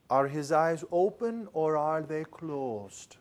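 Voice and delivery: slow and hushed, like an oracle; a hint of a mystic shopkeeper; slow mysterious voice. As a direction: lean in and ask it like a riddle. Mystic salesman questions the speaker.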